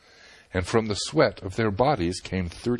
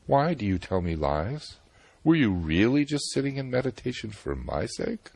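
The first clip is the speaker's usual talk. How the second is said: a mildly sweet, teasing question; sweetly; 6 semitones higher than usual. Acted. Surasai sweetly teases the sage, mildly sweet. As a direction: coax him gently, a touch sweet. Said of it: "Surasai replied sweetly".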